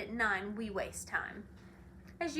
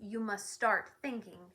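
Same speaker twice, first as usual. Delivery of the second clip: louder, pressing impatience; impatient; 4 semitones higher, 5 dB louder than usual. Acted. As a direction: push it through, impatient. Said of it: "continued the watchdog impatiently".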